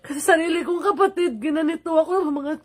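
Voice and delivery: crying. Real, not acted. Hurt by own sibling.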